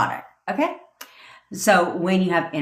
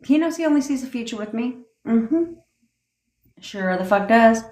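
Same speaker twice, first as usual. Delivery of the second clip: smug and a little higher; conceited talk; 5 semitones higher than usual. Shown as a demonstration. Coach voicing a conceited person's self-talk, smug. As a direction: sure of it, brushing off doubt. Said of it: "That's how you would talk".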